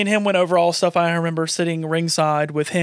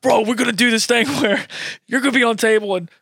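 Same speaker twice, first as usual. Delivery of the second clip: higher, eager hype-man voice with a laugh; excited pitch; 4 semitones higher than usual. Retold or imitated. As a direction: sell the big plan with excitement. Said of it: "Patrick's like".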